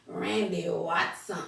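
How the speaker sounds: slow, drawn-out name announcement; Randy Watson. Retold or imitated. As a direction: lightly imitate a movie character's introduction. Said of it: "get that Watson coming to America".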